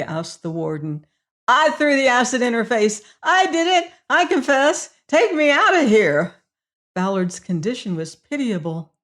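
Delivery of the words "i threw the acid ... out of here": high, louder desperate screaming; panicked confession. A narrator's reading. Prisoner pleading with the warden, high panicked screaming. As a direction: beg to be let out, terrified.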